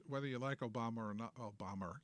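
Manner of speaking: whether you like Obama or not with a New York "Obama"; "Obama" said in a thick New York accent. Real, not acted. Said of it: "That's my New York accent coming up".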